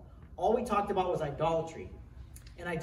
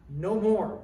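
loud, firm "No more" with the weight on "more"; preacher's loud renunciation, "No more"; firm declaration; 4 semitones higher, 8 dB louder than usual. Acted. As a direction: stamp it out, "No more". Declaring an end to family sin.

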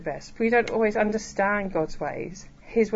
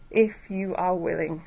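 a restrained prayer, asking rather than demanding; humble plea; 3 dB quieter than usual. Retold or imitated. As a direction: plead humbly, taking your time over it. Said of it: "He's not angry. He's not demanding".

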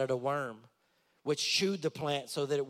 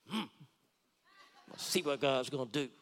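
a sulky, grumbling hum, then a mild pout; pouting Jonah; 3 semitones lower than usual. Acted. Jonah sulking outside the city, waiting on God, mildly pouting. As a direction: play Jonah sulking as he waits and watches. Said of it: "just watching, just mad".

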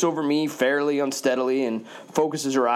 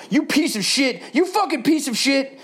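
put-on angry drunk yell; 9 semitones higher than usual. Drunk Rosé Girl yelling at the narrator, higher and angry. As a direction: spit the insult out at him. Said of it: "Rosé Girl yells".

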